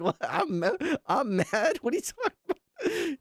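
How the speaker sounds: agudo, indignado, casi chillón; fíngete ofendida con voz alta; mock outrage.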